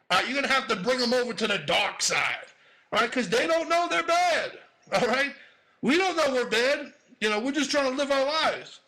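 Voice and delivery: hammed-up club comic routine; stand-up stage set. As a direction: work the crowd with swagger. Performs his Apollo set.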